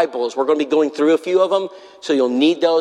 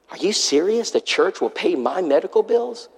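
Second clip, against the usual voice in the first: higher-pitched, mildly disbelieving question; incredulous question; 5 semitones higher than usual. Retold or imitated. Sick man hears church will pay his bills, incredulous. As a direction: ask it as if you can't believe the offer.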